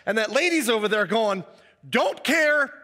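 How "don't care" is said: high, careless brush-off; carefree don't care. Retold or imitated. Healed woman shrugging off the critics, high and careless. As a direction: toss it off lightly, higher.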